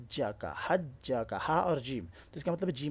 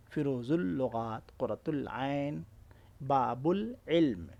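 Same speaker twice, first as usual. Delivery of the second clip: slow examples; much slower than usual. Shown as a demonstration. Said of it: "یہ مثالیں ہیں".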